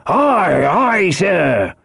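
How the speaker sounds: high shouted reply; crew's eager acknowledgement; men answering orders. A narrator's reading. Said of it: "answered two or three".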